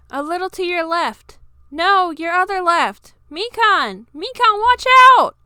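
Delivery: alarmed friend yelling a warning; calling out in alarm. Acted. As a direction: warn her before she falls. Calling out to Mikan on ladder.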